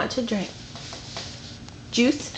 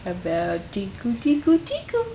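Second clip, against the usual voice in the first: playful tickle voice; 2 semitones higher than usual. Real, not acted.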